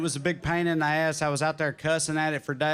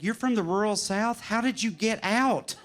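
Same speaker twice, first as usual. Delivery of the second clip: imitated earnest astonishment, higher pitch; retold sincere question, pitched up; mock sincere; 4 semitones higher than usual. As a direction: ask it like a wide-eyed, sincere outsider. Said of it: "ask me totally sincerely".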